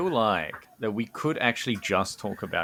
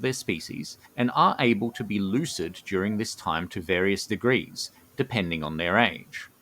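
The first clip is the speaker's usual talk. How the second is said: measured storyteller's read with deliberate pauses; lore narration; 3 semitones lower than usual. A narrator's reading. Co-host presenting the gnomes' Dreaming Society, measured lore narration. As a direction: unveil the secret phrase by phrase.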